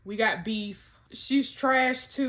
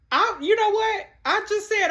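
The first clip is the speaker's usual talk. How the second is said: worked-up outburst; 9 semitones higher, 5 dB louder than usual. Real, not acted. Changes her mind, worked up.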